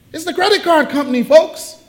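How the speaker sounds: high, laughing punchline; laughing reveal. Real, not acted. Preacher telling the congregation who's calling, laughing. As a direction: deliver it grinning.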